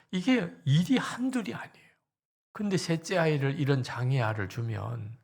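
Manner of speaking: mock-angry complaint that swells to a cry; pleading protest rising to a shout on 어떻게 하라는 겁니까; outburst at God. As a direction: retell the pastor's bitter prayer, building. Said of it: "하나님에게 폭발을 했습니다".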